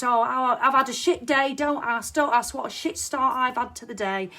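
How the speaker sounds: mock exasperated rant at a colleague; loud grumpy moan. Snapping at Audrey when she says hello, loud fed-up moan. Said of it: "you piss her off".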